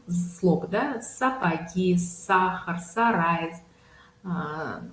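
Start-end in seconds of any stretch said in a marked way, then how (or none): 1.0-3.5 slow list of example words; careful articulation practice; word drill. Shown as a demonstration. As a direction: model САПОГИ, САХАР, САРАЙ one at a time. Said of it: "вы на эти слоги подбираете слова".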